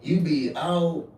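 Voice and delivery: loud, emphatic mother telling off; mama's scolding. Retold or imitated. Mama telling her son off about jail, scolding. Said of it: "my mama said the same".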